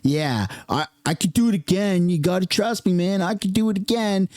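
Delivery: lightly voiced washed-up jock reliving glory; a hint of a has-been bragging to old pals; high school has-been. Peaked-in-high-school guy recalling his touchdown, lightly mocked. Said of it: "like, peaked in high school".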